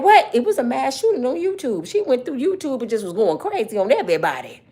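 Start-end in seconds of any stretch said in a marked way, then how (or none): 0.0-1.9 mock surprise. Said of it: "Be like".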